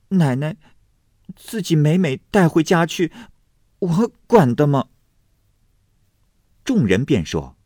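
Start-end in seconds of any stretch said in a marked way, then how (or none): 0.1-4.9 high, cornered maid's protest. A narrator's reading. Maid pressed hard with questions, cornered and defensive. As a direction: answer back defensively, pitched high. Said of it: "这宝蟾见问得紧，".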